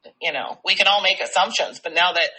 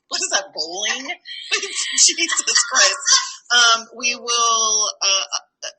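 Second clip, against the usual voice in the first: words broken by laughter; laughing; 3 semitones higher, slower than usual. Real, not acted. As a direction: try to talk while cracking up. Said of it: "I can't keep a straight face".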